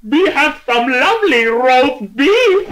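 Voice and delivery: huge shout. Acted. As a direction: fill up with air and blast it. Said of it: "he shouted in a voice so loud".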